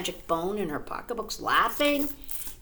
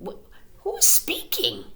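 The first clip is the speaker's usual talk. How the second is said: very high, surprised fox; startled fox; 14 semitones higher than usual. A narrator's reading. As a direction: squeak the question in alarm.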